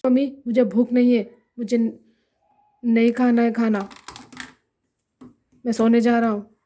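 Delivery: curt, angry, fast refusal of food; upset son brushing off his mother, angrily. Acted. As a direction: snap at mother, fast and fed up. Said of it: "इतना गुस्सा क्यों हो गया है?".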